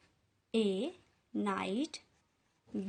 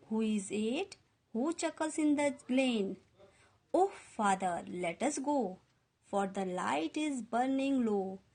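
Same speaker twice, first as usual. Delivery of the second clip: slow poem recitation; much slower than usual. Acted. Teacher reciting the stanza to the class, slow poem reading. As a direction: read each line slowly and evenly, like a poem.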